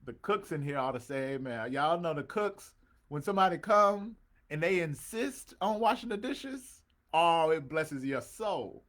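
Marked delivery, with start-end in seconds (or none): 1.7-8.8 louder and higher, slowing to savor it; louder, slower, higher exclamation; excited preaching. Real, not acted. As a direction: lift the room, celebrate the cooks. Preacher exclaims about church cooks.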